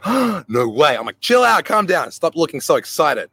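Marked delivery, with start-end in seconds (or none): 0.0-1.0 imitating a gasped, amazed reaction; mock amazement. Little brother hearing she is into him, mock amazed. 1.2-3.3 retold telling-off, starting high and then easing down; urgent reining-in. Older brother to excited little brother, urgently reining him in.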